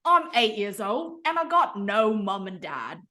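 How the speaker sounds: put-on Cockney accent. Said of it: "research a Cockney accent".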